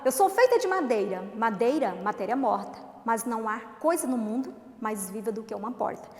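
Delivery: careful poem recitation for the class; read like a poem. Shown as a demonstration. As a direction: recite it as verse, with care. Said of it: "lê direitinho como se fosse poema".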